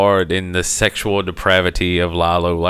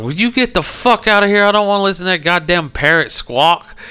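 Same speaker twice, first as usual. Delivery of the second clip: shouting them out of the room, hammed-up; retold yell; 9 semitones higher than usual. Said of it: "I was like".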